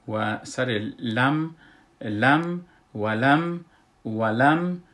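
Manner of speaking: «ولم» ending on a firm stopped mīm; showing sukun on mim. Shown as a demonstration. Teacher repeating «ولم» to show its silent mīm. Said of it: "نشان دادم که سکون است".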